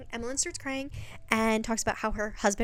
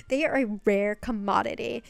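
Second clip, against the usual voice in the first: laughing; 4 dB louder than usual. Real, not acted. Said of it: "laughing line".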